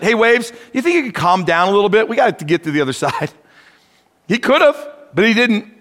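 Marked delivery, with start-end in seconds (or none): 0.0-3.3 fast, pleading mock request with a laugh; mock timid suggestion. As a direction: play up a polite, silly request to the waves. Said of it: "He didn't suggest it".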